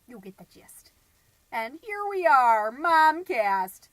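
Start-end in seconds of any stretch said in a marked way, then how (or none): 1.5-3.9 loud, proud show intro; excited announcer. Real, not acted. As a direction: announce the title with flair. Proud podcast show opener.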